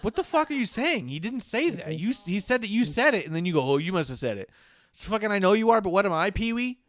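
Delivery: high, loud exasperated rant; mock outrage. Fan ranting at the wrestlers' twisted logic, high and loud. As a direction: blow up in disbelief, pitched high. Retelling fan's outraged reaction.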